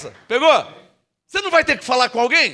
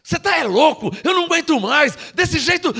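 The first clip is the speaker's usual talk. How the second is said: higher, exasperated grumbling at the bank balance; grumbling complaint; 5 semitones higher than usual. Retold or imitated. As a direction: moan about money in mock despair. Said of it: "ao invés". (reclamação exasperada e mais aguda)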